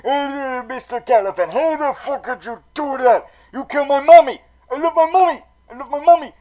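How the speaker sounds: loud, high, mock wailing rage; hammed-up anguished yell. Penguin yelling at Galavan who killed his mommy, hammed-up wailing shout. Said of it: "Penguin is like".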